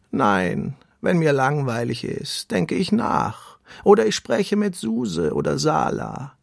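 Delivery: put-on slow, ponderous old tortoise voice; calm storybook tortoise; slow wise tortoise. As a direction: let each word take its time like an old tortoise. Tortoise Samia speaks.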